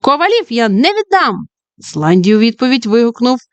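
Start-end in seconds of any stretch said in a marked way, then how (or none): 0.0-1.5 exclaim. Acted. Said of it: "вигукнула".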